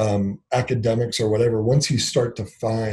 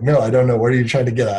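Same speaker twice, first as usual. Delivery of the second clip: louder, mildly exasperated pushback; retold frustration; 5 dB louder, much faster than usual. Husband retelling pushback to his wife's questions, mildly frustrated. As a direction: replay losing patience with the questioning. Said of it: "I was, like, really frustrated".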